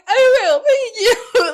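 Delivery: high, loud, sing-song thank-you; mock sweet reply. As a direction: chirp it back sweetly.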